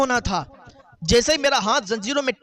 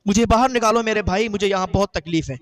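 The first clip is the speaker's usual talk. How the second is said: louder pleading cry for help; buried man begging his brother, a louder cry; screaming from the grave; 4 dB louder than usual. Acted. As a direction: call out to the brother, desperate and louder. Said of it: "چیخنے کی آواز آئی".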